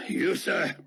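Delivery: stiff, offended officer barking a threat; lightly voiced indignant commander. Fortunato to Dart, lightly voiced indignant threat.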